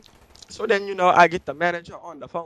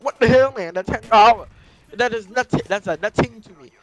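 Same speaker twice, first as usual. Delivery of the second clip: raised, louder outraged comeback; angry retort; 4 semitones higher, 6 dB louder than usual. Retold or imitated. Telling customer service the ten dollars is an insult, angry. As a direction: blow up at the cheap offer.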